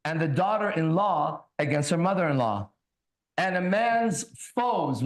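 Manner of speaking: slow, solemn Bible reading; scripture reading. Acted. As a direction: read each word like a sermon. Reads Bible aloud.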